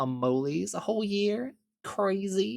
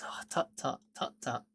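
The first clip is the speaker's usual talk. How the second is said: tsk tsk disapproving; 7 dB quieter than usual. Pretend. Mock scolding chat for puns.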